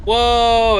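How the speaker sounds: surprised. Real, not acted. Reacts to the mechanism.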